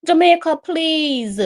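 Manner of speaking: high, loud begging cry; desperate plea. Real, not acted. Fan begging Jamaica in additional time, desperate plea.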